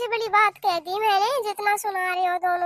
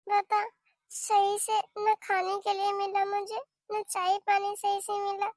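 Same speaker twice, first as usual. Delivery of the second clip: sulky grumbling; 2 semitones higher, 6 dB quieter, slower than usual. Acted. Bhabhi grumbles alone after quarrel.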